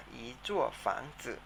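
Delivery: อีจั่วฝังจื่อ said slowly and softly; unhurried model of อีจั่วฝังจื่อ; teacher drawing out อีจั่วฝังจื่อ. Shown as a demonstration. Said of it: "ออกเสียงตามนะครับ".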